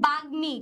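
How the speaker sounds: বাগ্মী as bag-mi, m sounded; careful pronunciation. Shown as a demonstration. Teacher introduces the word to students, careful pronunciation. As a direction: say বাগ্মী with a clear g then m. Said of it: "কিভাবে উচ্চারণ করতেছি?".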